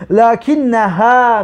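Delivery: "لکنها" drawn out slowly as lakinnaha; slow dictation. Shown as a demonstration. Teacher dictates لکنها slowly to the students. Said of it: "لکن نه هیه نمیگیم".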